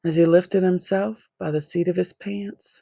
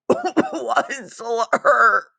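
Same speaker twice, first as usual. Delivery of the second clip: a lightly voiced Lorax cry, jumping higher; Lorax cries out; 6 semitones higher than usual. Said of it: "he cried".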